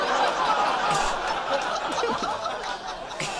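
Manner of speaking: high, voiceless wheezing laugh; real silent laugh; breathless laugh. Real, not acted. Laughing at the line.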